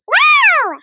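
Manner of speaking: wowed. Acted. Wowed by flamingo pose.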